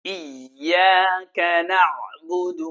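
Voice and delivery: slow, measured tajweed recitation; slow melodic Quran chant. Shown as a demonstration. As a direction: recite it slowly like a qari. Recites verse.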